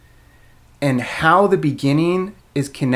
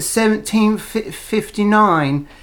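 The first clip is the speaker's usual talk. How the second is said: high, slow picture-book elephant; goofy elephant; 6 semitones higher, much slower than usual. Pretend. Dad reading the label as the book's elephant, goofy. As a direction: play a goofy, bespectacled cartoon elephant. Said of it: "He's kinda goofy".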